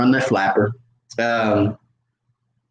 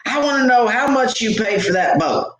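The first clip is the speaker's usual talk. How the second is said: high-pitched, insistent mock demand; upset woman; 9 semitones higher than usual. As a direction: imitate her indignantly repeating the question. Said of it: "you seem like you're upset".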